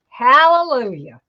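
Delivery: a quick, relieved cheer; glad hallelujah. Real, not acted. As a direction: blurt it out, relieved it worked. Relief after wreath loop works.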